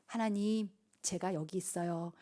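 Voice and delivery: low, hushed offering; quiet devotion. Acted. Believer presenting their life before God, low and hushed. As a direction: offer yourself softly to God.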